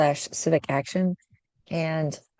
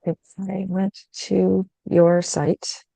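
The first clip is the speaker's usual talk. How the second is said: muffled; much slower than usual. Real, not acted. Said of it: "muffled and stuff".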